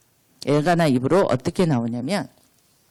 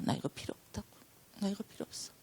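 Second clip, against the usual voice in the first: Hannah refusing; 16 dB quieter, much faster than usual. Retold or imitated. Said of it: "한나는 그거 필요 없다 그래요".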